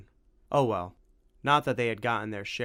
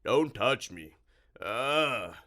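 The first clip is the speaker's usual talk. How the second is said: recoiling disgust; 2 semitones higher, 3 dB louder, much slower than usual. Acted. Creature recoils from Tim.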